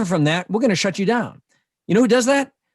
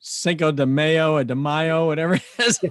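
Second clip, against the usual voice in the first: put-on Boston accent on Cinco de Mayo. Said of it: "Rob used his Boston accent".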